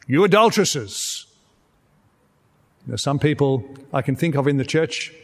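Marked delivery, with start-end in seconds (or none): 0.1-1.3 booming preacher call-out. Shown as a demonstration. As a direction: boom it out at the congregation. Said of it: "I would call this out in a booming voice to you".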